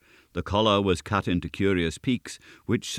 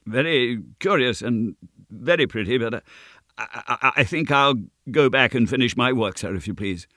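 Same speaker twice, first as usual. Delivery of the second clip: high, halting, stammered excuse; frightened sexton; 5 semitones higher, 4 dB louder than usual. A narrator's reading. Sexton begs leave of the goblin, nervous stammer. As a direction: edge away politely, tripping over words.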